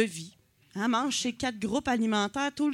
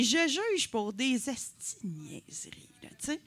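softer, whispered confession; whispered aside; 5 dB quieter than usual. Real, not acted. Comedian confiding to the crowd that she judges people, whispering. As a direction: let the audience in on a guilty secret in a whisper. Confessing petty judging to audience.

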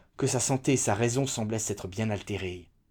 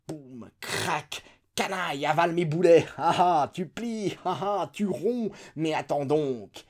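high, loud battle cries, slowing into a taunt; cannon-mad general; 6 semitones higher, 4 dB louder, slower than usual. A narrator's reading. General mimicking his cannons at the page, excited high shouting. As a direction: bellow like an artillery general gone wild. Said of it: "faisait un bruit infernal".

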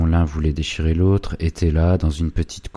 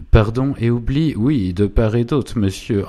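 higher and louder, quick agreement; eager acceptance; 7 semitones higher, 6 dB louder than usual. A narrator's reading. Goupil agreeing to the truce with Savinien, higher and louder. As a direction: seize the deal with a raised voice.

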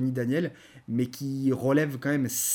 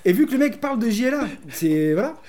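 worked up; 3 semitones higher, 5 dB louder than usual. Real, not acted. Co-host arguing over a comic he disliked, worked up. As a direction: argue heatedly, pushing the point. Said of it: "calme-toi".

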